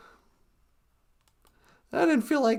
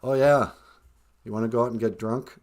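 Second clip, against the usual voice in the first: much lower put-on grandma voice; low, playful old-lady voice answering from upstairs; Nana character voice. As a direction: drop way down to play Nana. Nana voice continues.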